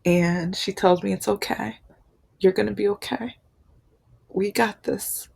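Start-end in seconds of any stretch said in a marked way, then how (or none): 1.1-5.3 gently reassuring. Retold or imitated. Sister hugging and comforting the crying speaker, reassuring. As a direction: soothe her gently, phrase by phrase.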